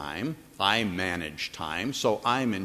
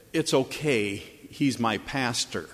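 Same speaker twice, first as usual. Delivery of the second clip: quiet raspy pained breath. Retold or imitated. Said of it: "in this kind of quiet, raspy, pained breath".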